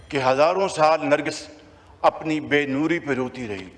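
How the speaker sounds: measured, declaiming first line of verse; reciting a couplet. Acted. Speaker recites a couplet to the house, declaiming. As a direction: lift the couplet out of the speech. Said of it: "ये शेर".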